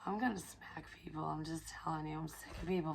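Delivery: breathy laughing threat; a half-joking whispered threat; laughing, hushed. Real, not acted. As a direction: chuckle it under your breath.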